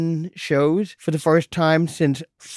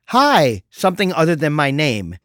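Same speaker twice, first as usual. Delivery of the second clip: chirpy assistant voice. Retold or imitated. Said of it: "Now it says".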